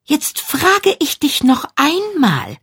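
serious. A narrator's reading. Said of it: "sagte Jennifer ernst".

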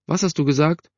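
high-pitched mother's voice; voiced mother. A narrator's reading. Mother answering her son from the kitchen, high voice.

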